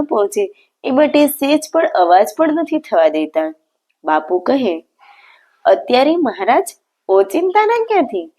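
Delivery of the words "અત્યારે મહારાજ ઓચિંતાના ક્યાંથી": sudden question, pitch jumping much higher; taken aback at the unexpected visit; surprised. A narrator's reading. Father surprised by sudden guest. (અચાનક આશ્ચર્યથી ઊંચા સૂરે પૂછવું)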